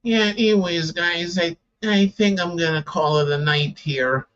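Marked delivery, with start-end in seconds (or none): 1.8-4.3 talking through a yawn; tired, yawning while speaking. Real, not acted. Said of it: "the way I'm yawning".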